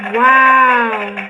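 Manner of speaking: loud, drawn-out wow; amazed wow. Real, not acted. Reader stunned as the reading is confirmed, amazed. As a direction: hold the wow in real wonder.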